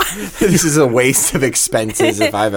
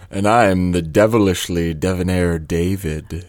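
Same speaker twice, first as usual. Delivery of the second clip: lowered deep voice; 5 semitones lower than usual. Acted. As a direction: drop the voice low. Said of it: "Artificially pitch-shifting the voice".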